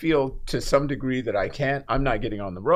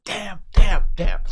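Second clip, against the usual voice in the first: retold cursing; 7 semitones higher, 7 dB louder, slower than usual. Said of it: "and I'm going".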